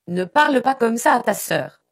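high, loud, upset reprimand; distraught command. A narrator's reading. Upset mother commands her son to respect his sister, distraught. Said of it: "commanda la mère, bouleversée".

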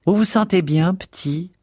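high, motherly fussing charwoman; motherly concern. A narrator's reading. Charwoman checking on the dazed lodger, lightly motherly. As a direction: fuss over him like a mother hen. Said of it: "avec une sollicitude maternelle".

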